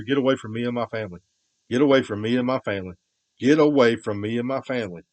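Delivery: loud angry yelling, hammering each line; angry shout. Real, not acted. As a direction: shout them off again, fierce and firm. Yelling at someone to leave.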